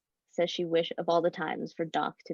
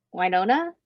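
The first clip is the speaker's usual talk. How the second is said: calling out; 3 semitones higher, 7 dB louder than usual. Acted. Calling out for vanished friend.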